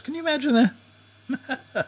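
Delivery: high, slow, amazed; mock disbelief. Real, not acted. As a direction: drag it out in disbelief. Incredulous aside.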